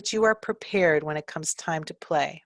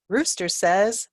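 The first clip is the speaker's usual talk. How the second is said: slow prompting; 2 semitones higher, slower than usual. Shown as a demonstration. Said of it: "fill-ins like".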